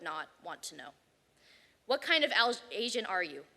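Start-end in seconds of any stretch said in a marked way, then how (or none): 1.8-3.4 title read. Shown as a demonstration. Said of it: "By Alex Day".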